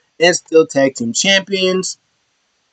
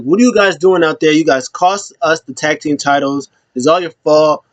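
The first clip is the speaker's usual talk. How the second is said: mild mock anger, a touch raised; mad, accusing. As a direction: imitate an angry teammate laying blame. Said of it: "Xavier Woods is so mad".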